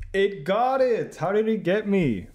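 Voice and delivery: high, loud and slow disbelief; amazed. Real, not acted. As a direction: stretch it out in real astonishment. Game guesses him correctly.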